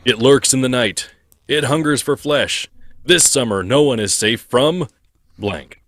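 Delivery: ominous movie trailer read; lightly voiced trailer narrator; horror trailer voice. Shown as a demonstration. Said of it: "think of this as, like, a movie tagline".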